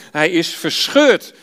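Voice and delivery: measured, even Bible-reading voice; reading Genesis aloud in church; scripture reading. Acted. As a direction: read the passage to the congregation.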